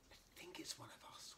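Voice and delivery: soft unvoiced whisper. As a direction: hush it so the creature can't hear. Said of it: "whispered Toto".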